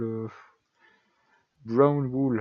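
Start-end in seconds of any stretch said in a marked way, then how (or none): 1.6-2.4 brown wool in a playful put-on English accent; mock English accent. Gamer jokes about his English accent, lightly put-on. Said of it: "avec mon super accent".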